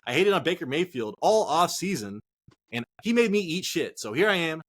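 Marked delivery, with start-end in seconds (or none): none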